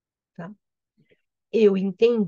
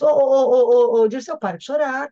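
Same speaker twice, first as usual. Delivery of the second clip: calling Cupid; 4 semitones higher, 8 dB louder than usual. Retold or imitated. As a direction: call out to him like Cupid. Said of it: "Cupido diz". (Cupido chamando Dirceu, em voz alta)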